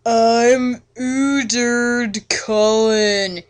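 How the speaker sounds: slow mock-archaic suitor voice; lightly voiced vampire murmuring his name; murmured intro. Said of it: "he murmured".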